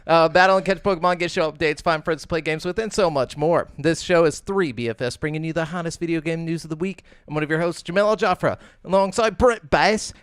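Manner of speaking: practised podcast host opener; podcast intro. Acted. Host welcomes listeners and lists where to subscribe, podcast intro. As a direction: roll through the show plugs.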